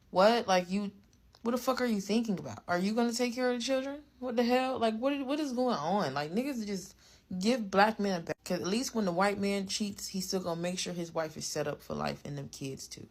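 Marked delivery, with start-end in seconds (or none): 0.1-8.3 high, rapid baffled questioning; incredulous outrage. Real, not acted. Commentator challenging a rapper over the children, high incredulous rant. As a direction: fire off questions in disbelief, pitched up.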